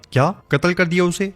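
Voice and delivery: shaking with rage at the news; angry disbelief. A narrator's reading. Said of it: "غصے میں کانپ جاتا ہے".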